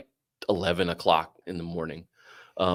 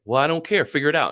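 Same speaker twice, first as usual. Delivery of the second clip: higher-pitched, dismissive imitation; retold brush-off; 6 semitones higher, 3 dB louder than usual. Mother refusing to help the caller, dismissive. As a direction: imitate someone curtly washing their hands of it.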